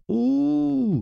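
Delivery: high, long drawn-out howl; howled yell. A narrator's reading. Cousin clawed across the face, a long high howl. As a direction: let out a long high wail. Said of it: "Медников заорал".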